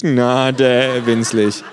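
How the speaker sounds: hohe, verspielte Känguru-Stimme. A narrator's reading. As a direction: frech und hoch als Känguru. Känguru, gedehnt. (freche, hohe Känguru-Stimme)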